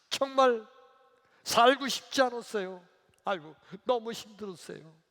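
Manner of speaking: high-pitched complaint of past misery; acted lament. Acted deacon lamenting to Jesus. (높은 목소리로 한탄하듯)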